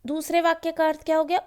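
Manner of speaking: usual speaking voice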